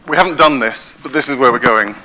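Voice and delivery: breathless after a long talk; out of breath. Real, not acted. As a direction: speak while winded. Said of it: "I'm out of breath now".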